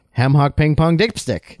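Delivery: slow, choppy parody of how Korean sounds; mock Korean. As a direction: mimic Korean syllables, drawn out and deliberate. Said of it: "American racist imitation of what Koreans sound like".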